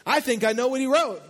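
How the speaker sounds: high, loud mock preacher; excited put-on preaching dad; imitating his father. Son retelling dad's sermon argument, imitating his preaching. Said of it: "he starts explaining".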